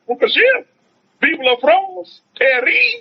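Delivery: high, drawn-out exultant cry; joyful exclamation. Real, not acted. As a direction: lift it up like a celebration. Exulting over France.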